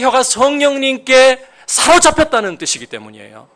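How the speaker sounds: preaching at full force. Acted.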